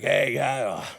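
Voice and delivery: imitating a winded big man; out of breath. Big man signing off to a fan, out of breath. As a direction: break it up with heavy breaths, loudly. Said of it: "All out of breath".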